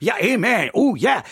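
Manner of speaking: low mock amen chorus; excited congregation. Mimicking church crowd reacting to this kind of preaching, mock amens. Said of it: "Everybody's like".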